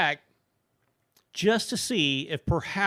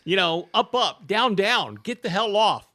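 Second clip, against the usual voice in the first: retold orders to the dog; 3 semitones higher, 4 dB louder than usual. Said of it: "I'm like".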